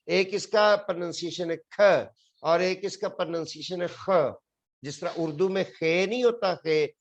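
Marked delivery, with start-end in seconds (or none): 0.1-2.1 ख said as a hard k, as in chemistry; teacher voices ख as a plain hard k; pronunciation demo. Shown as a demonstration. Teacher shows students the second sound: ख as k. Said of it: "इसके तीन pronunciation है". 2.4-4.3 ख said as a throaty kh, Urdu khe; teacher voices ख as the rasping Urdu khe; pronunciation demo. Shown as a demonstration. Teacher shows students the third sound: ख as throaty kh. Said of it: "इसके तीन pronunciation है".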